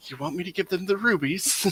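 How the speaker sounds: hushed half-whisper, soft and barely audible. Half-whispering a secret question to a party member: half-whisper. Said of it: "I'm gonna whisper and undercommon to Anika".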